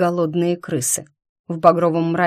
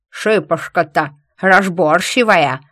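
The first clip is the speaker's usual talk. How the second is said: lisping wheezy convict; whistling s; 6 dB louder than usual. A narrator's reading. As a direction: hiss the s through a gap. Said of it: "вторил сип снаружи".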